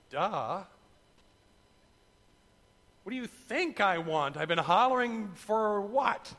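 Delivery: incredulous, indignant questions; mock exasperation. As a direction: act out a hammed-up "isn't it obvious?". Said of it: "many of us there would go".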